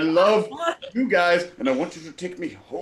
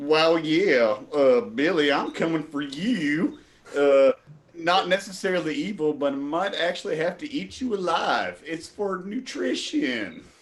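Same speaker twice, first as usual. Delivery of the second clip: put-on Southern accent with a drawn-out you. In an improv freeze game, a player told to switch to a southern accent. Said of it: "southern accent, a southern accent, please".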